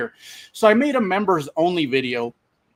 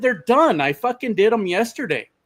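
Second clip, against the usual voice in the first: higher-pitched, indignant protest; retold exasperation; 5 semitones higher than usual. Driver to manager about safety videos, retold exasperated retort. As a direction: re-enact insisting the job is finished.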